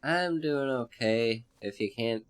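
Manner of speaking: hoarse and congested from a cold. Real, not acted. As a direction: talk through a stuffy, hoarse throat. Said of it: "my voice is kinda hoarse, and I'm a little bit congested".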